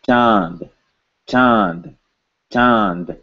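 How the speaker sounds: "Chand" with a nasal vowel and an audible n; careful demo pronunciation. Shown as a demonstration. Teacher showing students how the word sounds, careful demo pronunciation. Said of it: "If I am pronouncing this word".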